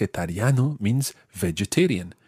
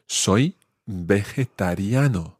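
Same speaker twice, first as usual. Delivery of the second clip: slow demo; slower than usual. Shown as a demonstration. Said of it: "And that phrase is".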